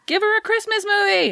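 high, bright mock announcer. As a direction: pitch it like a trailer voice. Mock movie announcer pitch.

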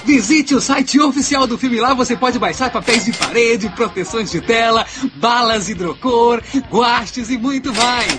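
slow, announcer-style sponsor plug; mock ad read. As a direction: read it like a radio ad, drawn out. (locução de comercial)

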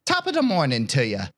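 hammed-up mock Irish greeting; pseudo-Irish accent. Podcaster reading a listener's question as written, mock Irish. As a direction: put on a jokey Irish brogue. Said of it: "pseudo-Irish speech".

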